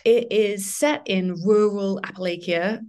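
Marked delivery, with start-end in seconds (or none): 2.0-2.9 Appalachia with a long "lay" and ending "kia"; trial pronunciation. Shown as a demonstration. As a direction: try Appalachia as "appa-LAY-kia", unsure. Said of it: "how do you pronounce that?".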